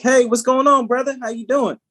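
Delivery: high, chummy boss greeting; white boss impression. White boss walks in on two Black colleagues, mock-chummy. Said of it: "your white boss comes in and he's like".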